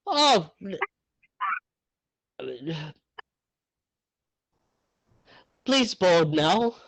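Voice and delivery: high, slow courteous chauffeur; polite chauffeur. Acted. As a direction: invite them aboard slowly and politely. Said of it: "kind of".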